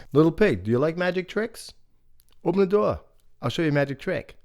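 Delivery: sly coaxing wolf. Acted. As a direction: lure the pig in sweetly.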